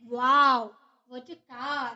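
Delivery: quick loud wow, then trailing off. Shown as a demonstration. Teacher repeating the example, loud wow fading. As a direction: burst out, then drop away. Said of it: "interjection है".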